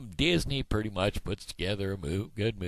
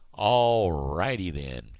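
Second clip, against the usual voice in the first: drawn-out sign-off; 4 dB louder, slower than usual. Shown as a demonstration.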